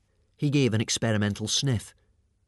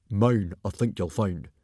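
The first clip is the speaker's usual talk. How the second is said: calm, assured claim in character; composed and firm. A narrator's reading. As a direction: state it calmly, as the chief. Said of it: "said Stoic calmly".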